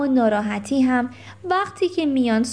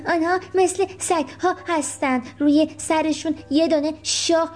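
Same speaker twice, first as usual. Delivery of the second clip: raised, know-it-all character voice; Rocky's character voice; 4 semitones higher than usual. Acted. Rocky boasting to the children about unicorns, higher voice. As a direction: play the confident little pet showing off.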